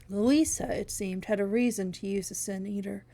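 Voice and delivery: ordinary delivery, nothing marked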